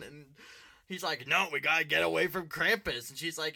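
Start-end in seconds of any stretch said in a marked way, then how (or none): 1.3-3.1 loud, raised retold argument; imitated insistent yell; mock urgent shouting. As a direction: act out a driver yelling back. Retelling dad's argument while driving.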